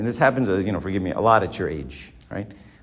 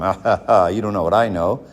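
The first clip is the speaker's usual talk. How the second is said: a smug laugh into a lightly gloating line; mock smug laugh. Professor lording it over undergrads with a smug laugh. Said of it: "And I'm telling them".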